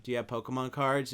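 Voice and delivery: low, hushed secretive ask; furtive drug deal. Retold or imitated. Teacher sounding out a student about banned cards, furtive. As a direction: ask softly, like a covert dealer. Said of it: "it was like a drug deal".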